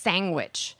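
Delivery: sandwich as "sangwitch"; regional pronunciation. Shown as a demonstration. Host echoes co-host's Philly word, sandwich as "sangwitch". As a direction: echo it softly, "sang-witch" for sandwich. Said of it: "Sang with a G".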